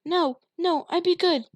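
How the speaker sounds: high, loud tearful pleading; little girl begging her father; crying plea. A narrator's reading. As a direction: beg through tears. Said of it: "Polly cried back".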